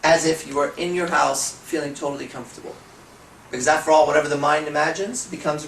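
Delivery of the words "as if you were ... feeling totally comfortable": slow, soothing trance phrasing; slow hypnotic example. Shown as a demonstration. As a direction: guide them into comfort. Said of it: "I'll give an example".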